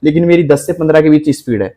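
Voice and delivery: a hint of a frustrated student's message; student quoting his own complaint to the teacher; complaining student. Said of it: "फिर आपका message यही आएगा कि".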